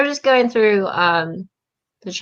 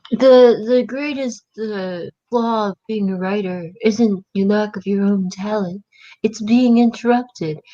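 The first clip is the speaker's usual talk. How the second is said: slightly raised voice mimicking an ad; imitated ad speaker. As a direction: mockingly recite an annoying ad. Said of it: "That stupid ad that's like".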